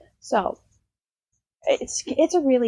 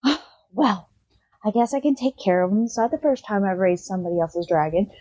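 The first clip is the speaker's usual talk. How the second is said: lightly voiced grandmother. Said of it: "the grandmother is like".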